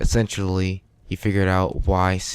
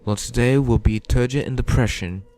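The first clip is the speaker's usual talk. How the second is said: higher, cheery Cockney morning announcer; Cockney accent; 4 semitones higher than usual. Acted. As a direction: chirp the school news in a Cockney accent. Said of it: "she had the most Cockney accent in my head".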